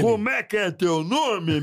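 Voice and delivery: host voice. Retold or imitated. Quoting the host asking a name.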